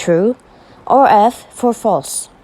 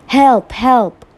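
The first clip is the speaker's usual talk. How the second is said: screaming for help; 4 semitones higher than usual. Acted. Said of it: "she screamed".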